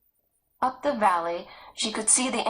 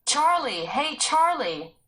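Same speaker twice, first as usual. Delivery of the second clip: shouting; 7 semitones higher, slower than usual. Acted. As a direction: shout for the missing boy. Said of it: "Joe shouted".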